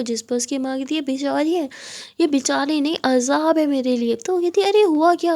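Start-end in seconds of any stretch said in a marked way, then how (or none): 0.9-4.6 a hint of an angry mother berating her daughter; scolding mother. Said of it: "बहुत ज़्यादा चिल्ला रही थी". 4.6-5.3 surprised question. Acted. Kiran asks angry mother why.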